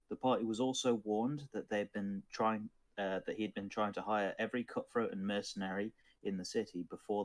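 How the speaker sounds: measured storytelling recap; steady tabletop narrator delivery; game master's recap. Acted. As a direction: narrate the story so far to your players.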